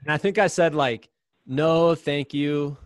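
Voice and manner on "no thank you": slow, overly polite refusal; super polite. Retold or imitated. Exhausted runner politely refusing mom's meat sticks, extra polite. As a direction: decline as sweetly as you can. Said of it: "trying to be super extra polite".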